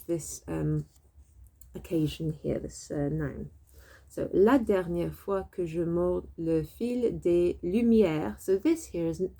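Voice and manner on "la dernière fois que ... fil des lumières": careful, slow French phrase; slow French reading. Shown as a demonstration. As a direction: read it out slowly for learners. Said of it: "it sounds a bit like dernière".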